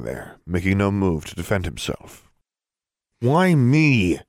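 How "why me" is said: loud, raised, tense question; through gritted teeth. A narrator's reading. Frustrated girl asking why he targets her, gritted teeth. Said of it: "asked through gritted teeth".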